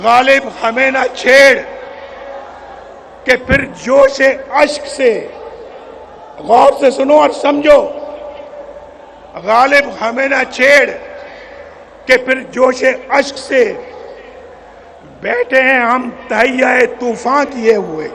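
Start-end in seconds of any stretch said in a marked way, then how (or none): 0.0-5.1 slow, measured verse recitation; reciting a couplet. Real, not acted. Leader asking the crowd to hear his couplet, measured recitation. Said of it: "जो शेर है वो मेरा सुन ले भाई". 9.5-18.1 reciting a couplet. Real, not acted. Leader repeating his couplet for listeners to understand, measured recitation. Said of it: "जो शेर है वो मेरा सुन ले भाई".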